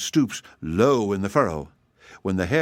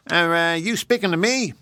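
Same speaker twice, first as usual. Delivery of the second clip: higher, sniffy hare voice; haughty hare; 8 semitones higher than usual. Acted. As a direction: look down on him as the proud hare. Hare addresses hedgehog.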